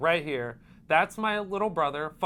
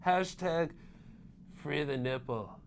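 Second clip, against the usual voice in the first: stretched-out caption voice; Mohira impression; 3 semitones higher, 4 dB louder than usual. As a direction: voice the hashtags like a mock L.A. bro. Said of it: "I'm gonna start voicing all of his captions".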